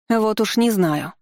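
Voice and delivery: high, slow snappy retort; snapping. Acted. Woman snaps back at the investigator, high and slow. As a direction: bite the words off slowly, pitched high. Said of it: "огрызнулась женщина".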